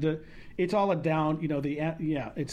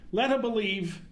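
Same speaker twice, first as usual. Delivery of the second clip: Brooklyn accent. Shown as a demonstration. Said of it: "I do it with my dad's Brooklyn accent".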